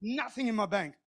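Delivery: quiet, fast-repeating aside to oneself; softly voiced private thought; anxious inner thought. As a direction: keep the panic under your breath. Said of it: "I thought".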